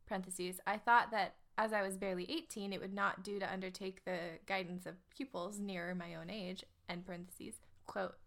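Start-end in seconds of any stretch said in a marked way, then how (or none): 0.7-6.6 put-on English accent. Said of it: "her ad was, um, in an English accent".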